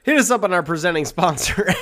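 a light sultry commercial voice; sultry perfume ad. Acted. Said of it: "The sultry voice of the speaker".

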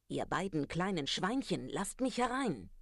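a lightly voiced wolf demanding entry; wolf calling out. Wolf at the stick house calls to both pigs, rising call. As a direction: call rising high on the last words. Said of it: "Vor der verschlossenen Tür rief der Wolf".

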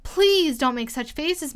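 loud, slow, drawn-out plea; crying out. A narrator's reading. Alice pleading with the dusted King, crying out. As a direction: exclaim it, stretching the first words. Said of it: "she cried out".

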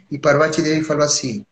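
usual speaking voice

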